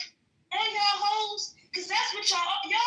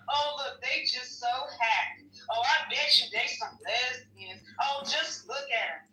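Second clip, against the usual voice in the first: lower, lightly voiced guy sneering while filming; mock leering man; 7 semitones lower, 3 dB quieter than usual. Mocking men filming women at the club, low and leering. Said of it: "the man wanna always put the motherfucking video on it".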